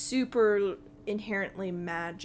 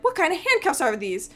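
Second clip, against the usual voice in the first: higher, louder kobold protest; indignant Meepo; 6 semitones higher, 7 dB louder, faster than usual. Acted. Kobold struggling with his handcuffs, indignant. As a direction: protest in a raised creature voice. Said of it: "and he's like".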